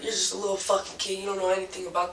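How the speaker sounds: mild mock scream. Man belittles the teller as a kid, mild mock scream. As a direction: imitate his angry outburst at half force. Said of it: "he starts screaming".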